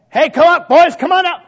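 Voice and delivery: put-on high, loud holler to children; acted parent's high-pitched shout; calling the kids. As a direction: call the boys in from afar.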